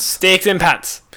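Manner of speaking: whispered echo of the punchline; unvoiced deadpan repeat. Real, not acted. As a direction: breathe it back as a hushed whisper.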